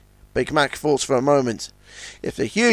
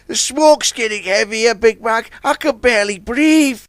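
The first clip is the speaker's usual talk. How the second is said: spluttering; 7 semitones higher than usual. Acted. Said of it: "he spluttered".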